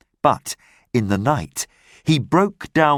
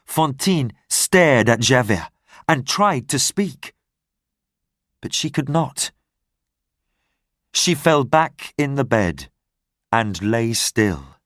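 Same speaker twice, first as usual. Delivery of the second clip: ordinary delivery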